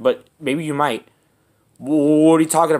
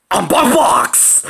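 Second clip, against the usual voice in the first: slow hoarse whisper; whispered character intro; 6 semitones higher, much slower than usual. Pretend. Pretend creature whispers its name to the friends. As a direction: breathe the name out slowly, mysterious.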